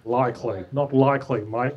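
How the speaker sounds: LIKELY in casual Aussie speech; Australian twang on "likely"; Australian accent. Shown as a demonstration. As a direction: say "Not likely, mate" like an Australian. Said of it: "this word and no other word in Australian accent".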